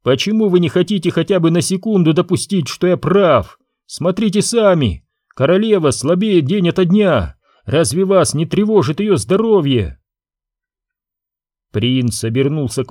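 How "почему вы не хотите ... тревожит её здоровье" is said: lightly voiced court adviser, pressing, a bit higher; a hint of a scheming counsellor urging; Jiba's voice. Counsellor pressing the prince about the queen, lightly voiced urging.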